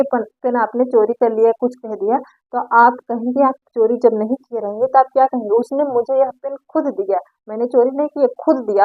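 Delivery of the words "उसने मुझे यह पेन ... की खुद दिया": light stress on खुद, denying theft; mild emphatic insistence. Retold or imitated. Accused of stealing the pen, mildly insisting it was given. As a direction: firmly insist on खुद दिया, without raising the voice. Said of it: "आप जोर देकर कहेंगे".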